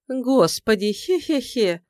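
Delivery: high, scornful little laugh; mocking laugh. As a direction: laugh at him with contempt. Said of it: "рассмеялась издевательски она".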